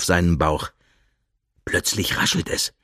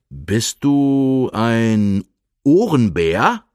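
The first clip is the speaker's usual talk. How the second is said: slow guessing bear; much slower than usual. Acted.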